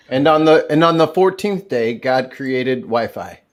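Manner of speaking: mock scripture. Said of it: "sounds like it would be in a Bible".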